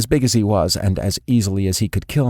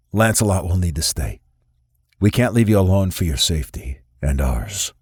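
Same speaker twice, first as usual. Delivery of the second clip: cold boss sizing up the prisoner; stern boss. A narrator's reading. Remington sets terms.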